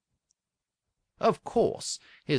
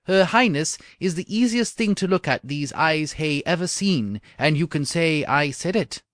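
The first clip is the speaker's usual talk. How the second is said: joyful; 5 dB louder than usual. Acted.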